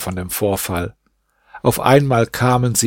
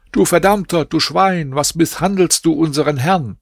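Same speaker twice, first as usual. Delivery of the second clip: higher, heated insults hurled at the judge; angry crowd; 5 semitones higher than usual. Acted. Crowd shouting at the Kadi before his door, a touch of anger. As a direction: throw the curses up at him.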